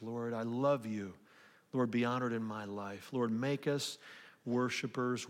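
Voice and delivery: earnest, softening pastoral prayer; closing prayer. Acted. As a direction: pray it sincerely for the whole room. Leads congregation in closing prayer.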